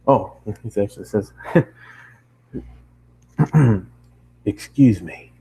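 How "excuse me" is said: a touch of a low, rough stranger's call; low gravelly traveler. Acted. Traveler calling to the girl in the bakery, low and rough. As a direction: call out lightly, like a voice seldom used. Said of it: "the traveler called out, his voice low and slightly gravelly".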